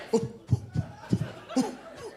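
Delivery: weak, high little woof; half-hearted dog bark. Retold or imitated. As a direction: imitate a confused dog's feeble bark. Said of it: "half-ass what the fuck bark".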